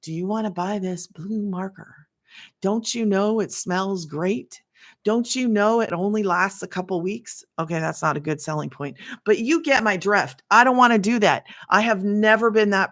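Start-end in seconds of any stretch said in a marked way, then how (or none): 0.0-7.4 mock sales pitch. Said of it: "get in front of here and go".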